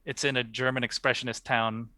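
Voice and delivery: languid pretentious art snob; unhurried, lofty gallery critique; art critic voice. Pretend. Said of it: "in your best, uh, art critic voice".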